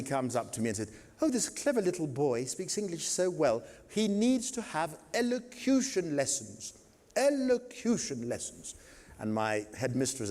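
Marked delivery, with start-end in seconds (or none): 1.2-8.8 rising high and piping, a prim lady gushing; prim lady's voice, much higher; posh grown-up. Retold or imitated. Posh adult praising the boy.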